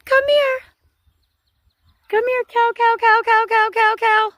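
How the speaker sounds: calling cows. Real, not acted. Calling cattle to come.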